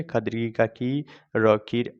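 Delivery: teacher's spell-then-read for खीर; spelling out syllables. Shown as a demonstration. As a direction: sound out खीर piece by piece, then whole. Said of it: "हिज्जे लगा करके".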